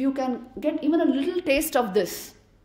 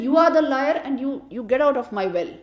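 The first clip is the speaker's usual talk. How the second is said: angry frog; 3 semitones higher, 5 dB louder than usual. Acted. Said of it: "this frog got very angry".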